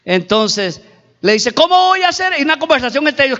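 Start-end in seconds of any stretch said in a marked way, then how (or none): 1.5-2.3 high-pitched incredulous question; raised, acted protest; protesting climber. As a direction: call up in disbelief.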